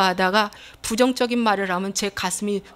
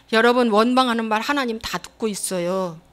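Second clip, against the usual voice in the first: ordinary talk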